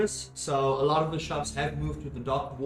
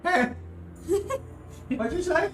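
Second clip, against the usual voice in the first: put-on cranky old lady; 13 semitones higher than usual. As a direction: shout it like a deaf granny. Old lady shouting back.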